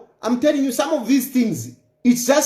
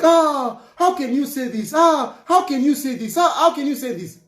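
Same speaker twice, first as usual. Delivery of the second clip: higher-pitched mock outrage, repeated; put-on protest, pitched up; mock shocked critics; 4 semitones higher than usual. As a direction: imitate scandalised listeners crying "ah". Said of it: "some of you will be like".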